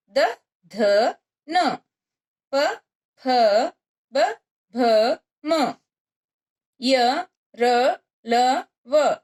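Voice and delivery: each consonant sounded out separately, pause after each pair; patient teacher reading out the alphabet; reciting the consonants. Shown as a demonstration. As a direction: model क, ख, ग, घ for the class to repeat. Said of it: "इसका उच्चारण करेंगे।".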